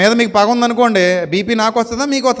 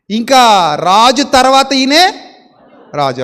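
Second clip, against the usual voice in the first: dramatic build; 3 semitones higher, 4 dB louder, much slower than usual. Real, not acted. Building climax in sermon.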